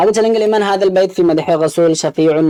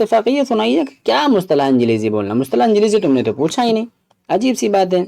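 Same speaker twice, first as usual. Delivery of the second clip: puzzled complaint; 5 semitones higher than usual. Real, not acted. Baffled by exam question wording.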